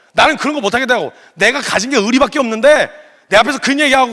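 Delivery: mock-indignant loyal disciple digging in; stubborn upset protest. Peter refusing to let Jesus wash his feet, stubbornly upset. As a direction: protest in a lightly hammed-up hurt. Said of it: "버틴 거예요".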